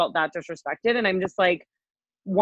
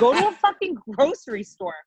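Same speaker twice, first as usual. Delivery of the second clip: exasperated words broken by laughter, higher; laughing rant; 6 semitones higher than usual. Real, not acted. To friends about rude customers, laughing and exasperated.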